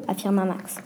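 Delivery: usual speaking voice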